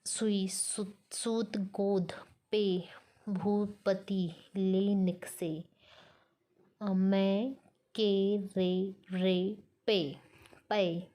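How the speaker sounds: very slow, one syllable at a time; scanning verse syllables. Shown as a demonstration. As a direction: read each syllable of the verse as its own beat. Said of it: "उदाहरणार्थ".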